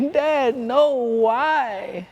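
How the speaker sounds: put-on a little boy refusing the toothpaste; high childish complaint; whiny son. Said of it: "he couldn't stand it".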